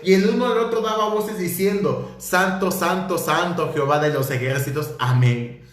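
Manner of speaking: scripture reading. Acted. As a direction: proclaim the verse to the congregation.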